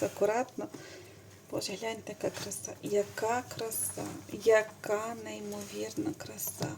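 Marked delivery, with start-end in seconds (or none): 1.5-6.7 hushed awe. Real, not acted. Knitter admiring gift needles for viewers, hushed awe. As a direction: breathe the beauty out quietly.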